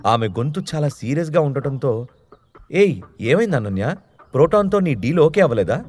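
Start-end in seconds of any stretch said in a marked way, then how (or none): 2.7-5.8 a touch of worried haste; anxious question. Acted. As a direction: ask in mild alarm. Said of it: "కంగారుగా అడిగి". (కొంచెం కంగారుగా ప్రశ్న)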